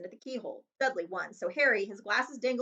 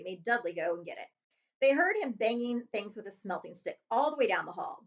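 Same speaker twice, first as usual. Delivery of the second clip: ordinary delivery, nothing marked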